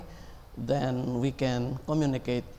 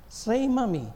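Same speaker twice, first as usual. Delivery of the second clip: much higher cooing; coaxing a baby; 10 semitones higher than usual. Retold or imitated. Parent coaxing baby's first word, high cooing. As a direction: coax a baby to say Mommy. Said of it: "The very first word you teach".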